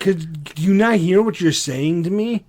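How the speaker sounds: retold incredulity. Boyfriend challenges girlfriend's werewolf claim, emphatically incredulous retelling. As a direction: spell out the absurdity, replaying your side.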